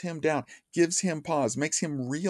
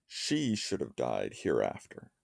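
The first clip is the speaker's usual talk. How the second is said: "She" leaned on first, slow and low; stress on She, trochee; 11 semitones lower, 5 dB quieter, slower than usual. Shown as a demonstration. Lecturer showing the line opens on a trochee, stress on "She". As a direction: recite it softly, leaning on "She". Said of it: "but rather a trochee".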